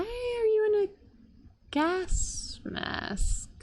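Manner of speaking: high, startled question; surprised. Real, not acted. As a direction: pitch up in disbelief. Surprised at character.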